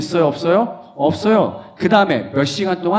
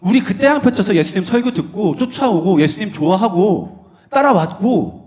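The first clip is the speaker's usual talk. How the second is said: higher, louder pleading complaint; disciples protesting; 6 semitones higher, 5 dB louder than usual. Acted. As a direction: demand what more Jesus wants. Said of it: "제자들이 따져 물은 거예요". (예수님께 따지는 제자들, 억울한 항의)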